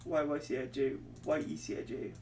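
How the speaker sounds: slowly, letter by letter; slow, careful re-read; slow spelling. Real, not acted. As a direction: drag each letter out while checking. Repeating letters, slowing down.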